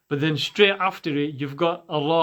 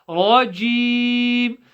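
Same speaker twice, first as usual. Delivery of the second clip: slow, held vowels; Quranic recitation; 7 semitones higher, 5 dB louder than usual. Shown as a demonstration. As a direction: recite the word long and full. Recites the word slowly.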